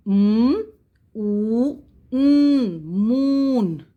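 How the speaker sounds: loud letter by letter, M, O, N, then moon; loud spelling drill. Shown as a demonstration. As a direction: call out each letter firmly for the class. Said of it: "let's read the spelling".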